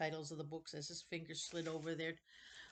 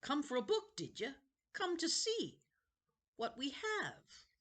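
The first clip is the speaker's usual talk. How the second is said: put-on high, eerie old man's voice; a wheedling ancient keeper of books; creepy old librarian; 10 semitones higher, 5 dB louder than usual. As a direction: play a strange, eager old librarian.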